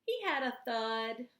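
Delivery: put-on a child gently explaining a fallen bird; innocent Noel. Noel innocently tells Valentine the woodpecker had a thud.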